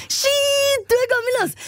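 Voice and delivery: put-on high, cheeky teen boy voice; mocking teen boy. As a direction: toss it off like a rude kid. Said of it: "Man sier da ikke sånn til damer sånn".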